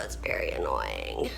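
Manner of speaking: crying through the words; sick and finally breaking into tears; real crying. Real, not acted. Breaking down over illness.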